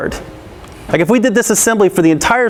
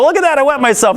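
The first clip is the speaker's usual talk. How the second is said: laughing at myself; 5 semitones higher than usual. Retold or imitated. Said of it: "I go".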